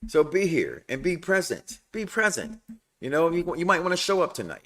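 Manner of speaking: soft, measured coaxing; hushed, deliberate persuasion; low-key Ronnie impression. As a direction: act out an invite that is really an order, quietly. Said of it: "he don't talk like that".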